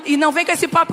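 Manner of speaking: ordinary talk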